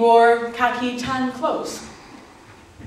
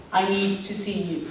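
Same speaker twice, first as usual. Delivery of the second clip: earnest lover; 5 dB quieter than usual. Acted. Retold lover's earnest request.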